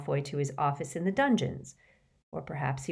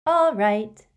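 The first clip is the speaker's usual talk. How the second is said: higher, much louder bright agreement; cheerful; 5 semitones higher, 9 dB louder than usual. A narrator's reading. Luna answers Harry's excuse, cheerful and louder. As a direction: toss off a breezy, happy yes. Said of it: "she said cheerfully".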